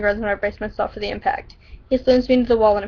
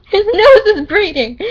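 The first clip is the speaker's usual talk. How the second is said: cracking up mid-sentence; slow, giggling through the words; laughing; 9 semitones higher, 8 dB louder, slower than usual. Real, not acted. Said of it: "I can't do it".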